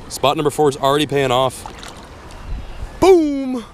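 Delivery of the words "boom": high burst of triumph; real excited yell; excited shout. Real, not acted. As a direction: boom it out on the hookset. Hooking fish, excited exclamation.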